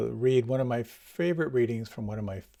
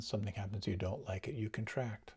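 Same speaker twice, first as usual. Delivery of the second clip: quiet; 8 dB quieter than usual. Shown as a demonstration. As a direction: drop to a soft, withdrawn voice. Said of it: "contrasting liking with disliking".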